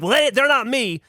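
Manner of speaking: high-pitched mock indignation; aggressively angry. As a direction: imitate an angry guard dismissing the excuse. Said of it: "aggressively angry at us".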